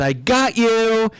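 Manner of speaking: high, slow, gleeful "I got you"; gleeful gotcha. Retold or imitated. Son springing his prank on mom, high and gleeful. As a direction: stretch out the prank reveal with glee. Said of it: "He goes".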